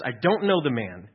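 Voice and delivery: loud, angry outburst; cursing denial. Retold or imitated. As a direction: hurl the denial. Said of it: "he starts to curse".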